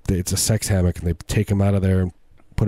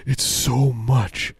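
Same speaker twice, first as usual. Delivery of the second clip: mock nervous; 5 semitones higher, much slower than usual. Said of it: "sweating nervously".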